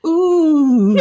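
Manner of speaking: long comic "ooh"; imitated lion moan. Imitating The Lion for a co-host, comic moan. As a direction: draw out a mock lion call.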